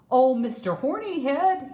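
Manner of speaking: loud, high hail to the rhino; lion hailing the rhino; calling out. Acted. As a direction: call for help across the jungle. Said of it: "he called".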